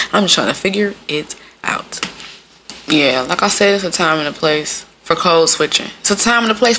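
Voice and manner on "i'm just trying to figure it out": "figure... it... out" spaced word by word; deliberate phrasing. Real, not acted. Repeating herself to listeners after laughing, deliberately spaced out. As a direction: pause before IT and before OUT.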